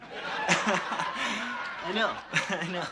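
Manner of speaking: real laughter breaking into the words; laughing. Real, not acted. Laughs at own punchline.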